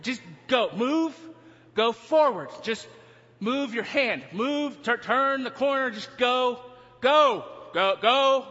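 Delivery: urgent commands building to loud shouts; retold yelling. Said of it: "In the back, I'm yelling".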